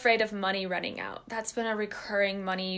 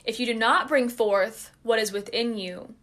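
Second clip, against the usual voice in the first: quote reading. Shown as a demonstration. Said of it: "I'm just gonna read that again".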